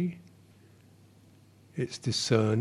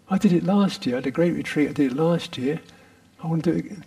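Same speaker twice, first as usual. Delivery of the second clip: a higher, louder, self-satisfied brag; boastful ego voice; 4 semitones higher, 4 dB louder, faster than usual. Acted. Teacher mimicking the bragging "I am" voice, lightly voiced. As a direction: lightly play the proud meditator. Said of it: "Did you hear the voice?".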